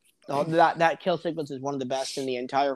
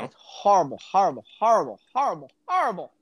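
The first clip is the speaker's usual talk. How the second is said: mock outrage; faster than usual. Mock outrage at other host's opinion.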